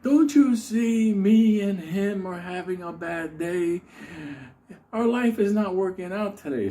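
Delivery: high, slow, strained pleading; the Unabomber's intense voice. Retold or imitated. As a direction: talk like an unhinged man defending his dog. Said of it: "and he goes".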